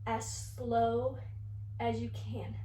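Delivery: fading to a whisper. Shown as a demonstration. Teacher demonstrating sloth slowness.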